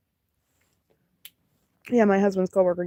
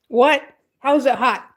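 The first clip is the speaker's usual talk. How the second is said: surprised; 5 semitones higher, 5 dB louder than usual. Real, not acted. Surprised at the chat.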